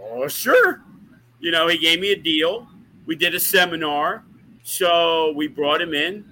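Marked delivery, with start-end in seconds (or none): 0.1-0.8 high, bright-eyed yes, mocking his own agreement; mock cheery sure. A promoter mock-agreeing to Davey, high and cheerful. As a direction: toss off an easy, overly happy yes.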